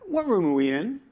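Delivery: questioning rise on in; rising question. Shown as a demonstration. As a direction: pitch rises at the end like a real question. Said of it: "I may raise, you know, my pitch".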